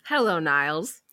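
low, smooth Frasier read. Acted. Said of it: "you will be Frasier".

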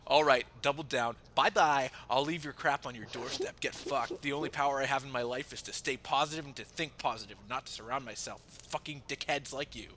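loud imitated furious friend; mock angry rant. Quoting the friend's furious goodbye, loud mock rant. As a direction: rant at him like a wounded friend.

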